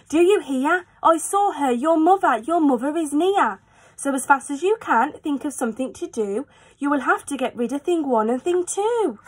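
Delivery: high, alarmed fish cry; a fish sounding the alarm. Acted. Fish in the pot warning the children, high and alarmed.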